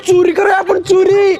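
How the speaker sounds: excited, carrying voice; too loud. Acted. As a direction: blurt it out too loudly for a secret. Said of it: "हळू बोल". (गुपित असूनही मोठ्याने)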